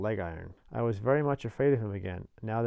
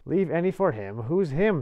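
higher, louder puzzled convict; startled questioning; 6 semitones higher, 6 dB louder than usual. A narrator's reading. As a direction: challenge the boy with sudden puzzlement.

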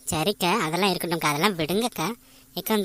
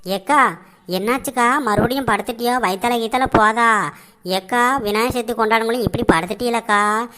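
calling out; 3 semitones higher, 4 dB louder than usual. Acted. Neighbour calling out to lying sister.

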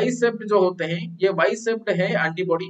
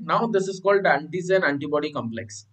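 term spelled out slowly for notes; slow, deliberate teacher dictation; 3 semitones lower, 3 dB quieter, much slower than usual. Shown as a demonstration. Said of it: "तो इसे क्या बोल देंगे?".

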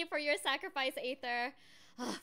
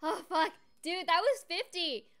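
swearing tirade; 14 dB louder, slower than usual. Real, not acted. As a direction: yell the curses, overwhelmed. More shouted swearing after pull.

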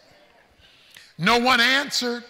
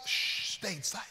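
whispered, far softer; a preacher drops to a whisper for the silent crowd; hushed whisper; 3 semitones lower, 10 dB quieter than usual. A narrator's reading. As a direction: hush the room like the silent crowd.

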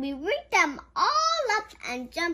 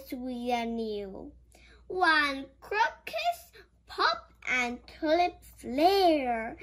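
poem reading; 3 semitones higher than usual. Acted. Reads poem in book.

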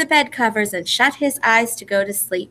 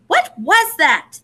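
frightened call; 7 semitones higher, slower than usual. A narrator's reading. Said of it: "they called out into the darkness".

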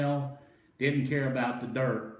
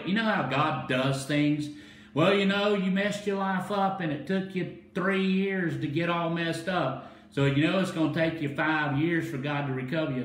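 higher, driving preacher delivery; energetic preaching; 6 semitones higher than usual. Real, not acted. Preacher mimicking a doubter's excuse to the congregation, energetic preaching.

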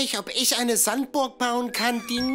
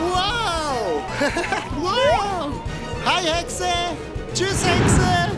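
excited; 6 semitones higher, much slower than usual. Acted. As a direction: call out to the witch gleefully. Passing the witch on the ride.

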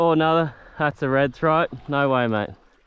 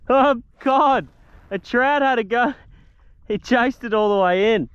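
excited; 10 semitones higher, 3 dB louder than usual. Real, not acted. Trout chased the lure in.

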